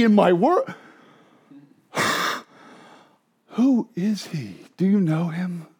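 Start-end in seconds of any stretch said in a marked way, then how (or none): 0.0-0.7 Jesus voiced boldly. Preacher voicing Jesus's claims.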